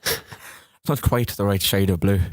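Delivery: slow amateur Irish imitation; slow attempt at Irish 'quite' and 'right'; attempted Irish accent. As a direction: carefully copy an Irish accent. Copying the Irish practice sentence.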